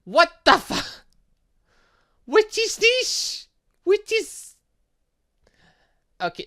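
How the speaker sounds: ordinary talk, nothing marked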